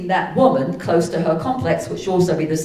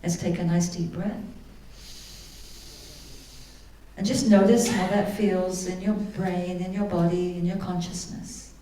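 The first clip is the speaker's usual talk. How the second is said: guided meditation. Acted. Guiding listeners through a forgiveness exercise, calm meditation voice. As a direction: lead the room gently into calm.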